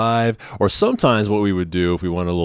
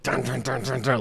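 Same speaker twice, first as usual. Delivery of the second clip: quick, higher-pitched "dun" knocks; imitated door pounding; 5 semitones higher, 8 dB quieter than usual. Storyteller imitates people pounding on the door, imitated pounding. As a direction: knock out rapid door thuds with the voice. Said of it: "people start pounding on the door".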